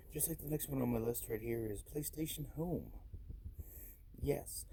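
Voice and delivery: polite customer service representative. Real, not acted. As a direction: talk like a helpful call-centre agent. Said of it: "Why am I talking like a customer service representative".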